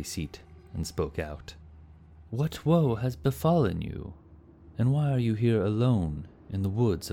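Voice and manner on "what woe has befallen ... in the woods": a lightly voiced noble knight, a touch higher; knight's voice. A narrator's reading. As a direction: speak as the steady knight.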